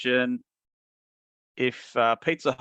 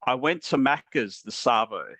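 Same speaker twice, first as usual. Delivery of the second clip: Australian accent demo. Shown as a demonstration. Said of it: "my phrase that I'm gonna get you guys to do".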